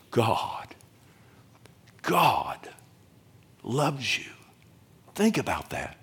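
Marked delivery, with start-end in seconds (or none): 0.1-4.3 soft God loves you. Shown as a demonstration. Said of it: "you need to say".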